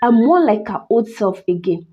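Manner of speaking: measured, dramatic storytelling; story narration. A narrator's reading. Narrator telling listeners of a cursed doll, story narration. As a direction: tell an eerie tale with careful pauses.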